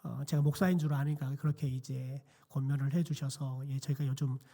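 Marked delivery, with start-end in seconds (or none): none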